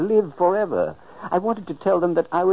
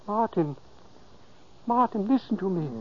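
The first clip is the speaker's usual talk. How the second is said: softly calling; 3 semitones higher, 6 dB quieter than usual. Acted. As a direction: speak gently, softly. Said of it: "I spoke softly".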